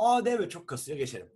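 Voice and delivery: a hammed-up eager reply; eager yes. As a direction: gush your yes like she's hooked. Eager agreement with his suggestion.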